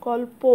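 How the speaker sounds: কল্প with the final "o" held out; sounded-out vowel. Shown as a demonstration. Teacher pointing out the "o" vowel, কল্প drawn out at the end. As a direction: linger on the closing "o" of কল্প. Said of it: "একটা আসছে অ এর উচ্চারণ".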